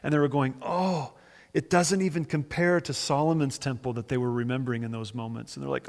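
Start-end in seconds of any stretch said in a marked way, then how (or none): 0.6-3.9 higher-pitched mock lament; mildly wailing "oh" of disappointment; imitated weeping. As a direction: lightly act out a mourner's complaint. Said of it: "people who were weeping".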